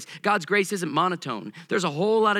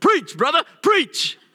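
very high, animated, swooping yell; 10 semitones higher, 7 dB louder than usual. Retelling how deacons in the front row respond to preaching: imitating deacons yelling. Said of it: "they start yelling".

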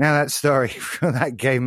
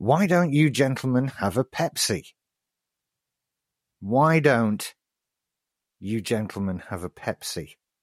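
needlessly exaggerated, over-the-top British accent. A quiz host reads a quote for players to identify, unnecessarily british accent. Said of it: "read in an unnecessarily British accent".

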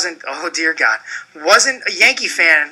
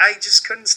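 ordinary talk, nothing marked

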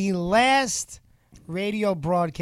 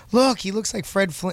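ordinary talk, nothing marked

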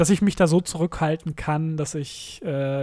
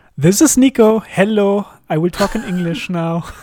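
very loud English with a German accent; 4 semitones higher, 8 dB louder than usual. Nico introduces himself in English on a German podcast: German accent. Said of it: "With a very nice German accent".

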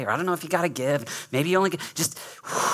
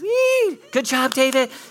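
put-on squeaky, very high little-kid cheer, like a third-grader; 11 semitones higher, 7 dB louder than usual. Recalling third-grade teammates praising him while playing ball, imitating teammates' high voices. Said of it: "real high voices".

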